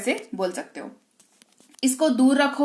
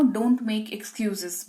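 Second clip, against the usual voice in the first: very slow model phrase; 5 dB quieter, much slower than usual. Shown as a demonstration.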